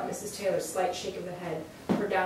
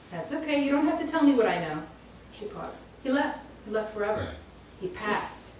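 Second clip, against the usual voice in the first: knowing psychic; 2 semitones higher than usual. Acted. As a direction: tell her what you already know. Psychic channels the dead man.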